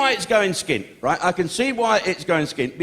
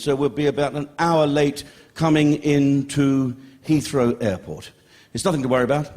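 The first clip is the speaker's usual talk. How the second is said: a hint of a reassuring airline captain; pilot announcement; 5 semitones lower than usual. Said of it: "the captain came out and said".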